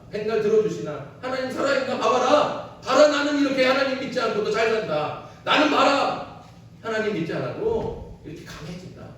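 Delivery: lightly voiced taunting scoffers; mocking enemies. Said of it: "놀려요". (다윗을 조롱하는 원수들, 살짝 비웃는 말투)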